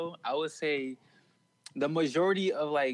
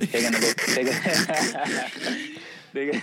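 Trump impression. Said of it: "put on my Trump real quick".

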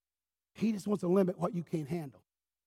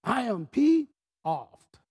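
sudden shout, louder and higher, slow; angry outburst; 9 semitones higher, 14 dB louder, much slower than usual. Retold or imitated. Son shouts back at God in anger, furious shout. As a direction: yell it back at God in fury. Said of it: "And I said a curse word".

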